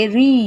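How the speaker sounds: রি held out long; long vowel. Shown as a demonstration. Teacher showing how we pronounce these, রি drawn out. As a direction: stretch the vowel in রি. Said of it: "এই যে আমরা উচ্চারণটা করছি".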